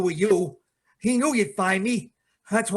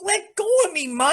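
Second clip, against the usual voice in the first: desperate shout; 10 semitones higher than usual. Acted. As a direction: shout at your mother to let go. Son pulls free from mother.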